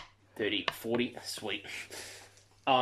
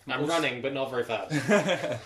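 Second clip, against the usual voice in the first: laughing; 3 semitones higher, 3 dB louder, slower than usual. Real, not acted. Player laughs describing slow run.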